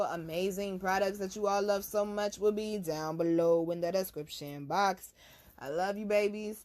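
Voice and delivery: lively, lilting outro to fans; upbeat sign-off plug. Real, not acted. Host tells her viewers where to find her, upbeat. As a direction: plug yourself to your followers with gusto.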